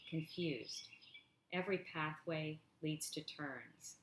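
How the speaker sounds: measured, deliberate poetry recital; poem reading. Acted. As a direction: read each line as verse, pausing after it.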